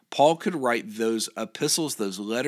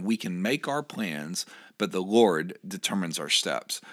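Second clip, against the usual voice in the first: slow and weighty, each word placed; a slow emphatic scripture reading; slower, deliberate reread; 2 semitones lower than usual. Shown as a demonstration. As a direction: read it slowly so it sinks in. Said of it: "Let me read that again".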